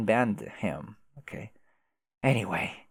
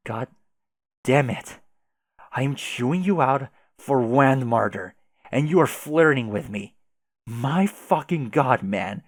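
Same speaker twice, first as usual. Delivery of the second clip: angry; 5 dB louder than usual. Acted. Troll yelling about flirting.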